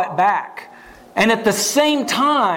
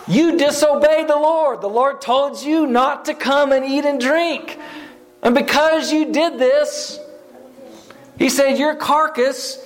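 prophet's judgment; 4 semitones higher than usual. Retold or imitated.

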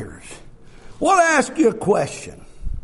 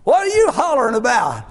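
wife's retort; 8 semitones higher than usual. Retold or imitated. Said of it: "and she goes".

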